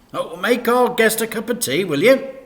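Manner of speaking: loud, high exasperated dad; loud annoyed dad voice; grumpy dad. Acted. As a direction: grumble it loudly. Dad's voice.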